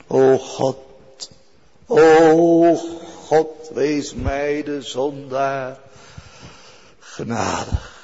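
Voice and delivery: slow pleading plea for mercy; pleading prayer. Acted. Sinner begging God for mercy, slow pleading. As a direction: beg the judge for grace, drawn out.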